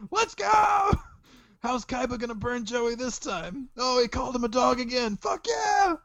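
high, squeaky fan voice; squeaky kid voice cheering on the show; excited kid fan. Pretend. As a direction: hype it up like a kid watching cartoons.

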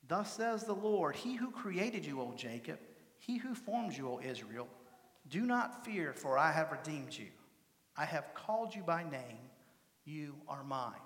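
measured recitation, each phrase starting up and falling away; solemn Scripture recitation. Acted. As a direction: recite the prophet's words to a child, deliberately.

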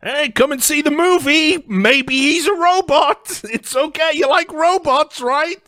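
high, loud sing-song mock pitch voice; mock sales pitch. Mocking the studio, a high, loud sing-song sales voice. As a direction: sell it like a cheesy cartoon promoter.

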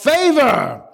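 congregation shout of the word; shouted response. Shown as a demonstration. Preacher leading the church to shout Favor. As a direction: call out Favor loud and high. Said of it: "Somebody shout".

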